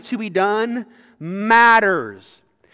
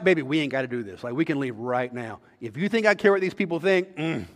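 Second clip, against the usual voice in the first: tender dad to daughter; 4 semitones lower than usual. Pretend. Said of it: "I'm gonna be like".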